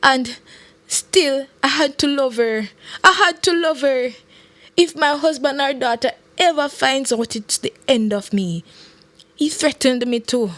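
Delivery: a touch of sobbing, pleading out her regrets; tearful confession. A narrator's reading. Minister confessing her fear and secrets to Lorian, mildly sobbing. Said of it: "The minister was sobbing now".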